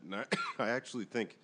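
coughing through the words; choking on beer. Real, not acted. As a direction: talk while choking on a sip. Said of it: "I was choking on a sip of beer".

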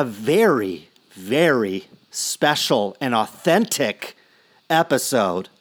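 slowed down, leaning on very; slow and weighty on very; slow emphasis. Real, not acted. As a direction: drag out very special and authentic. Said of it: "And I emphasize".

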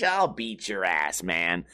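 kidding tough talk, slow and falling; joking threat. Shown as a demonstration. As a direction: toss out a drawn-out threat as a joke. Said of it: "someone who's joking".

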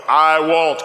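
WON'T pushed out firmly on "I won't."; emphatic. Acted. Peter vowing to Christ he won't fall, emphatic. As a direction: hit "I won't." with big conviction. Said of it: "this big emphatic".

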